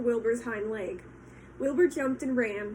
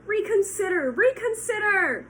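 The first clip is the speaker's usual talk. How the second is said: goose crying out; 9 semitones higher, 7 dB louder than usual. Acted. Goose begging Wilbur to reconsider, loud. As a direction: cry it out as a last plea. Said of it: "cried the goose".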